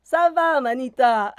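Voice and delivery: Ça va, manita in a West African lilt; casual West African slang greeting; West African accent. Shown as a demonstration. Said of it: "the little voice".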